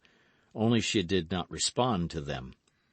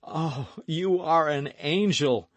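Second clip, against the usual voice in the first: delighted exclamation; 8 semitones higher, 4 dB louder, slower than usual. Acted. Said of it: "exclaimed the young man".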